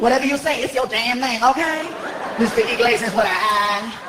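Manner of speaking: sassy woman voice; sassy clerk. Retold or imitated. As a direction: dismiss him with attitude. Clerk sass.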